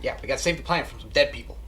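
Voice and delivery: quick, hurried explanation; fast talking. Acted. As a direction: rush through it in one go. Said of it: "that's why I'm talking so fast".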